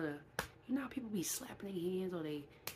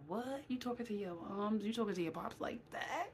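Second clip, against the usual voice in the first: scolding parent; 5 semitones higher than usual. Retold or imitated. Voicing a parent scolding a child.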